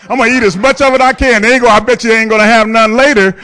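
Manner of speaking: mock spiteful vow. Dad vowing to eat all the supper himself, mock spiteful vow. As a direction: gloat that you'll eat it all.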